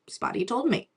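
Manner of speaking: put-on a little girl who finds it obvious; child explaining to her mother that bunnies talk; imitating child self. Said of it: "It's like".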